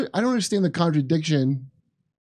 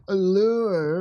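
imitazione di una donna. Retold or imitated. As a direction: lightly imitate her drawn-out "lure". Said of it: "How does she say it?".

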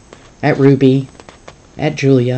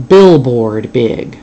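big idea; 2 semitones lower, 5 dB louder, much slower than usual. Acted. Girl pitching a grand idea.

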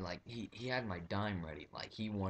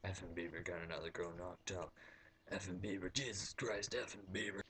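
softer mock redneck grumble; grumbling redneck; 4 dB quieter than usual. Old redneck behind him grumbling about Bieber, mocking. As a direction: mutter like a disgusted old redneck. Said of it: "this old redneck behind me".

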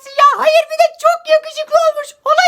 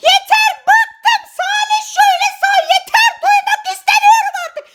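fed-up shouting; 5 semitones higher than usual. Acted. Girl shouts at gossiping classmates to go away. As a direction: yell at them to stop. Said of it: "Ne bağırıyorsun be?".

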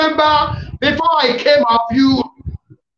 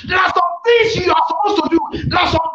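forceful, rising prophetic declaration; fervent preaching; 4 semitones higher than usual. Real, not acted. Preacher breaking limitations over listeners' lives, fervent preaching. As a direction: drive it home to the congregation.

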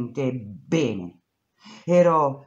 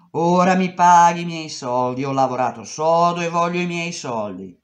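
firm demand; 3 semitones higher, 7 dB louder than usual. Retold or imitated. She demands her pay.

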